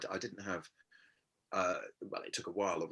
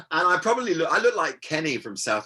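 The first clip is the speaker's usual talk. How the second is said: laughing; 8 semitones higher, 10 dB louder than usual. Real, not acted. Laughing at his own image.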